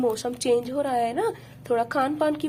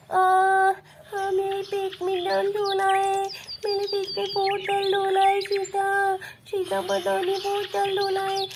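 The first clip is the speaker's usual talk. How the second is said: put-on a child whining, higher, about a stomach ache; child in pain; 3 semitones higher than usual. Little daughter crying to mama about stomach pain. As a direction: plead with mama like a hurting little girl. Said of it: "बहुत रो रही है".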